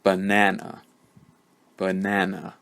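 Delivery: "banana" with a strong middle and weak first and last syllables; middle-syllable stress. Shown as a demonstration. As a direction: lean on the middle of "banana", schwa on either side. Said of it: "You might be able to hear a difference now".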